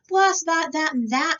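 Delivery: high, loud blasting of each idea; shouted dismissal. A narrator's reading. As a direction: shout down every suggestion. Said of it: "shouted President Taft".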